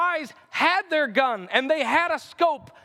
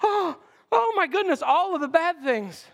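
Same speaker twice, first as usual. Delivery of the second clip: mock shock; 4 semitones higher than usual. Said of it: "it's like".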